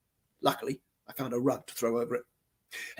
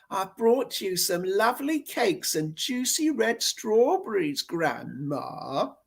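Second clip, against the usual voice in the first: smarmy whine; 4 semitones higher, slower than usual. Acted. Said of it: "she whined with a smarmy grin".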